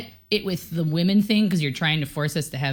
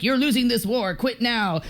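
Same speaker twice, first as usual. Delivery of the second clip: higher, taunting leaflet voice; mock propaganda; 6 semitones higher than usual. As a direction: taunt the enemy soldiers. Voicing wartime propaganda.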